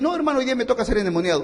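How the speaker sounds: rattled off fast, tongue in cheek; fast, teasing mock confession. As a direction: toss it off quickly as a joke. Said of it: "No te va a decir".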